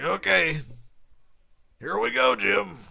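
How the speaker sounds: high, loud, excited booth voice; pumped-up commentator impression; Tony Romo. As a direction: sing it out high and eager, like a sportscaster. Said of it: "Can't do a Romo impression".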